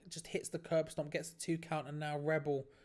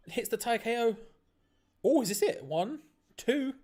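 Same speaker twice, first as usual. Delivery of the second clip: excited; 6 semitones higher, 8 dB louder than usual. Real, not acted. Near fall on Thai KO.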